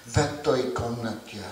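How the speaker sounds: measured Russian poetry recitation, building then easing; poem recitation. Acted. Poet reciting to a church basement audience, poem recitation in Russian. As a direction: recite in Russian with a deliberate, incantatory beat.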